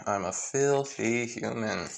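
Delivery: slow, soft mock confession; sarcastic. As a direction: draw it out slowly with heavy sarcasm. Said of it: "with, like, a lot of sarcasm".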